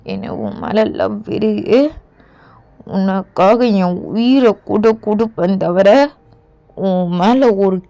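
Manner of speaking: tender vow. Acted. Husband vows to protect wife.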